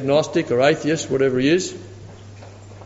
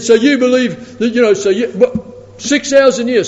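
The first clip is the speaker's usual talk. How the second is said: high, loud disbelieving question; can't believe what you hear; imitated scoffing atheist; incredulous; 7 semitones higher, 5 dB louder than usual.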